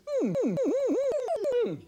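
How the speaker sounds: mock giggling. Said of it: "he runs off laughing".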